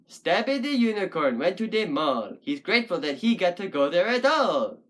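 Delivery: bouncy sing-song rhyme recital; Doctor Seuss-style verse. Shown as a demonstration. Puppet poet trying out a couplet, sing-song verse. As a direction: recite it in a regular nursery-rhyme beat. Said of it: "sounds like some sort of sick and twisted Doctor Seuss poem".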